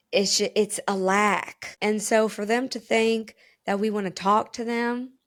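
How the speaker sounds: put-on country accent. Real, not acted. Explaining what men think, lingering country accent. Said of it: "that country accent just, like, stayed".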